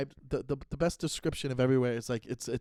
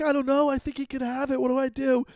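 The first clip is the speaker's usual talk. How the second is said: high-pitched mock panic; imitating freak-out; 10 semitones higher, 4 dB louder than usual. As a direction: retell a panicked sister, voice jumping much higher. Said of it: "she started crying and freaking out".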